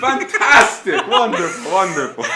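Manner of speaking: loud, high gushing cheer; delighted little figure. Acted. Little figure answers a whispered threat, high gleeful delight. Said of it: "he's like".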